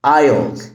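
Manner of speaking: "Aisle" as "ile", no S; silent S. Shown as a demonstration. Teacher models the word, "Aisle" with silent S. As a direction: say "Aisle" without any S. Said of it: "ال S هنا silent".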